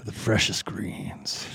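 slow whispered guide voice; meditation whisper. Pretend. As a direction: breathe the words out slowly.

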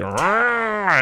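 high monster rawr; a quick high roar; cute rawr. Retold or imitated. Monster's sound at dinner.

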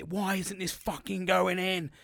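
retold frustration, stretching the words out; retold angry outburst. Man raging at flooring that won't lock, retold angry outburst. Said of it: "But I got angry".

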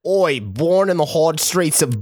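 a mock British accent that slips toward Australian; failed British accent. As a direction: lightly voice a cockney bloke, badly. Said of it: "That, that was an Australian accent".

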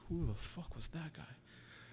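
amused, baffled aside, drawn out; laughing disbelief. Retold or imitated. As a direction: chuckle out the bewildered question. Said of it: "and I'm just like".

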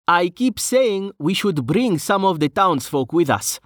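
high-pitched character voice, mildly nagging; whiny Brovos. Acted. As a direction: press the point in a high, plaintive voice.

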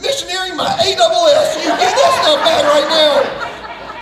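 hammed-up furious dad; retold yell. Dad yelling at mom.

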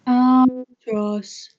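slow drawn-out albatross. Pretend. Albatross calling game.

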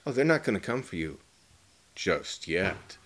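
suddenly evil and lovely, with sass on the last words; Tim Curry. Retold or imitated. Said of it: "But he comes at it like".

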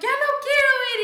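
high, loud crying protest; tearful whine. Retold or imitated. Refusing Vegas to husband, high crying whine. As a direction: wail it like a hurt child. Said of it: "And I'm like".

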